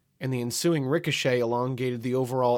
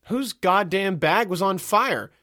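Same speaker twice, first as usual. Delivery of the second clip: exasperated shout; 8 semitones higher, 5 dB louder, slower than usual. Acted. Annoyed shout down the line.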